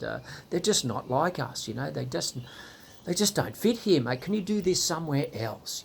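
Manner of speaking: a hint of a snobby committee member; mock prim church elder. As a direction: politely ask Trevor to stop bringing them, sniffily. Church elder telling Trevor off.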